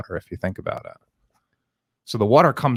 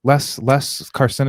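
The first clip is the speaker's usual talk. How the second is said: slow, higher Indian accent impression; 6 semitones higher, 4 dB louder than usual. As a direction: imitate the doctor's Indian accent. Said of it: "That's the worst Indian accent".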